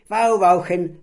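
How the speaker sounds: loud, high playful yapping; the little dog laughing in barks; happy dog bark. Acted. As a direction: laugh as a barking puppy. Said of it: "lachte fröhlich Schnorki".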